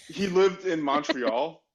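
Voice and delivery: put-on slow Italian-accented He lived in Montreal. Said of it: "listener laughs".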